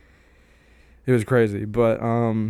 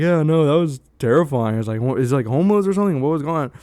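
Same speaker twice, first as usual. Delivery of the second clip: fake scared; 3 semitones higher, 4 dB louder than usual. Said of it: "playing into it".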